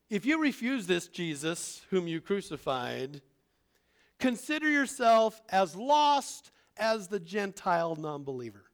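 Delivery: a hint of a stern apostle; Peter's warning. Peter warns the Jews.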